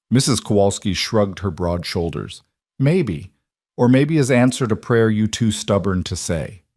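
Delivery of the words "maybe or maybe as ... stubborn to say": put-on older woman, thick Polish accent. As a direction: speak with a heavy Polish accent. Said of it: "in her thick accent".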